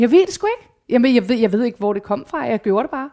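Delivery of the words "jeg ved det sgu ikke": excited. Real, not acted. Emotional outburst recalling mother's death.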